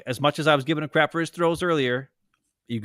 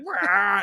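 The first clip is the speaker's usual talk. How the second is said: imitated crazy wah; 6 semitones higher than usual. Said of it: "and he's like".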